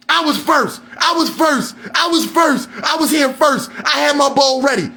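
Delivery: mock squabble. Housemate claiming the microwave, mock squabbling and half-shouted. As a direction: whine like a housemate who got there first.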